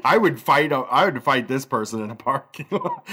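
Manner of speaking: talking through laughter; laughing. Real, not acted. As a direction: laugh while you say it. Host laughing at the story.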